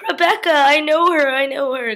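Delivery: squealed high and loud recognition; Elf-style excitement. Acted. Vlogger recognizing the actress, squealing high excitement. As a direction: gush like Buddy spotting Santa. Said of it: "And then I was like".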